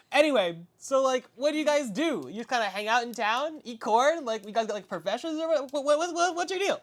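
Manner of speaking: high, bright-eyed questions; eager kid voice. Acted. Young son quizzing the guests, high and eager. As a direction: ask like a curious boy.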